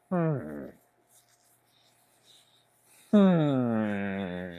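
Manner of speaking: long falling "hmm"; drawn-out, quiet mock-thinking hum; pondering hum. Streamer pretends to weigh a viewer's request, pondering hum.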